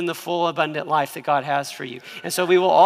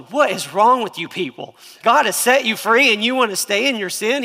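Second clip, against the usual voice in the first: exasperated Paul; 4 semitones higher, 5 dB louder than usual. Retold or imitated. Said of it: "I think Paul's going".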